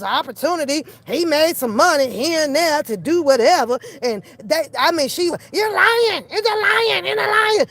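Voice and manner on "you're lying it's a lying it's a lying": high-pitched, repetitive shrieking accuser; mock accusation. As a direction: imitate someone yelling an accusation over and over. Mimicking her accusations.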